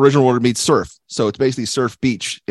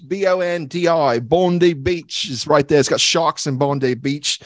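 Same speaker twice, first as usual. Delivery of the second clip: put-on Aussie accent, chatty; Australian accent. Host recalling volleyball at Bondi Beach, in put-on Australian accent. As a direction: talk like a cheery Australian local. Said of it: "Australian accent".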